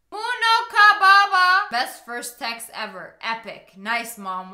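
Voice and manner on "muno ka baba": odd reading. Retold or imitated. Reading strange mom text.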